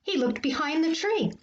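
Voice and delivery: animated picture-book storytelling; reading to children. A narrator's reading. Teacher reading a favorite story to boys and girls, animated. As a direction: read it to children with lively lifts and pauses.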